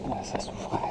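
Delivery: straining, short of breath; breathless effort on the descent; strained breathing. Real, not acted. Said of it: "j'arrive pas à respirer correctement".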